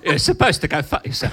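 mock Cockney accent, comic impression; Michael Caine. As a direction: put on a hammed London accent. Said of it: "in your Michael Caine accent".

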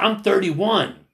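high, loud, drawn-out imitated declaration; slow it down to make the point; retold emphatic rebuttal. Younger man correcting older protester, imitated emphatic insistence.

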